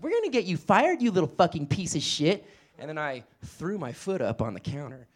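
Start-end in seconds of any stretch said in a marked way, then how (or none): 0.0-2.5 higher, threatening yell; mock-angry threat to get him fired. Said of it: "just yelling at me".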